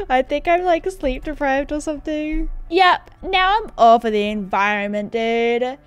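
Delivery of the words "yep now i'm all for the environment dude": rough attempt at a Texas dude; lightly put-on Texas accent, stretched endings. Character sharing today's eco motto in a shaky-attempt Texas accent. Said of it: "like, a Texas accent".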